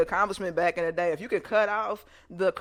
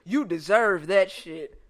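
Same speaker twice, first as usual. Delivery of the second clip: teasing glee; 3 semitones higher, 4 dB louder than usual. Real, not acted. Teasing the bad cousin.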